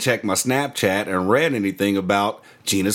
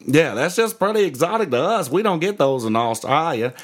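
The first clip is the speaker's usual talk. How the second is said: higher-pitched imitated Australian; Australian accent; 7 semitones higher than usual. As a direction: mimic an Aussie explaining earnestly. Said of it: "One of those dudes from Australia".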